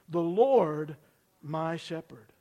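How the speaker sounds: measured two-beat declaration, LORD stronger; leading a group recitation. Shown as a demonstration. Preacher has congregation repeat it, steady declaration. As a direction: LORD held out, pause, then my shepherd easing off. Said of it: "Say, say it again".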